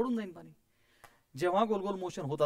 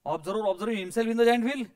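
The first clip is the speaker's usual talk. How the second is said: each word spaced out slowly so students can write it down; slow, clear dictation to the class; 3 semitones higher, 4 dB louder, much slower than usual. Shown as a demonstration. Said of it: "जे discuss केलं तेच लिहा".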